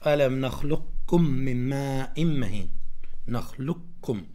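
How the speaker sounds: "نخلقكم" with the qaf merged into a doubled k; "نخلقكم" as nakhlukkum, keeping the qaf's heaviness; recited with partial merge. Shown as a demonstration. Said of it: "تظهر قليل من القاف".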